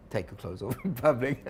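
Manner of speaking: breaking into a laugh mid-phrase. Real, not acted. Trainer joking about clothes off in public, laughing. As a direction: say it through real amusement. Amused at own side remark.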